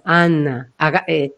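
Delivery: "Ana" low, set back; voice placed behind. Shown as a demonstration. Voice coach repeats the name to show it sits behind, low. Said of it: "está detrás".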